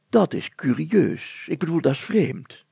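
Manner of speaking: mayor pondering aloud; musing mayor. Acted. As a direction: savour the fancy word, then simplify. Mayor muses.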